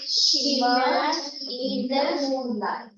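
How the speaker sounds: slow repetition. Shown as a demonstration. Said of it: "Say this".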